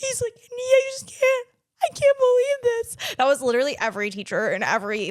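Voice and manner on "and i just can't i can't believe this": mock very high, loud tearful sobbing wail. Retelling how teachers reacted on election day: imitating sobbing teachers. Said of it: "the teachers were sobbing, going".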